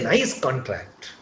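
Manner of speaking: "contract" stressed on CON; "nice contract" with first-syllable stress on "contract"; noun stress. Shown as a demonstration. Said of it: "I am using it as a noun".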